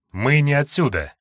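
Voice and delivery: calm soothing voice; gently calm a frightened girl; reassuring. Acted. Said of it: "начал Андрей успокаивающим тоном". (успокаивающим тоном)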